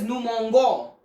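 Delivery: mangeons said "mon-go", hard g; nous mangeons mispronounced with a hard g; wrong hard g. Shown as a demonstration. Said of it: "it will be pronounced as".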